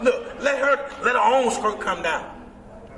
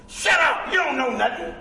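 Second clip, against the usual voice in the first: rough shouted put-down; 4 semitones higher than usual. Retold or imitated. Old timers' rough talk quoted.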